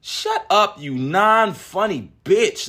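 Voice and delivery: a touch of high mocking contempt; contemptuous rant. Real, not acted. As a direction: talk down to her with scorn. Ranting at Michelle Wolf.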